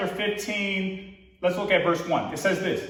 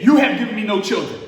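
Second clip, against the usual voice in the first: a touch louder, mildly upset; 2 semitones lower, 4 dB louder than usual. Retold or imitated. Abram repeating his complaint to God, mildly upset. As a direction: lean on it with mild irritation. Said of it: "Does he sound a little bit upset".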